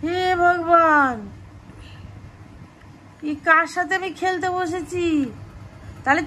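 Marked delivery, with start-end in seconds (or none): 0.0-1.1 exasperated sigh. Real, not acted. Child quits the game, parent exasperated.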